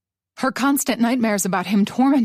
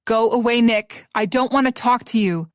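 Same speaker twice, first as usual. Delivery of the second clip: yell. Acted. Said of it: "she yelled in return".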